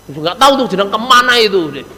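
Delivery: acted coarse wife who can't be bothered; rude wife. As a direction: brush the visitor off rudely. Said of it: "bahasanya cewek ini jangan kau wasar".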